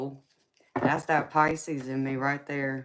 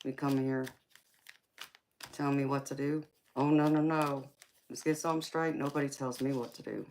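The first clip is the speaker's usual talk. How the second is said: acting a fool. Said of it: "The acting a fool".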